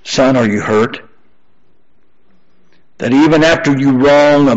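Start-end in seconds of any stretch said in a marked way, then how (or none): 0.0-1.0 lightly voiced mother, pitched low; mother's voice. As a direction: ask it gently low, as a mother to her son. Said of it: "the voice of his mother saying".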